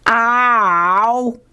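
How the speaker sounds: sudden high yelp; a short, high, comic ow; mock yelp of pain. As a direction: cry out as if zapped. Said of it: "And Sherman yells out".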